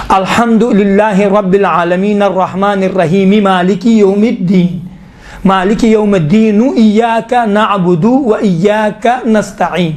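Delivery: verses linked, sounding each final vowel; continuous Quran recitation without stops at الرحیم; connected recitation. Shown as a demonstration. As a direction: run the verse ends into one another. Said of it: "اس طرح سے تلفظ کریں".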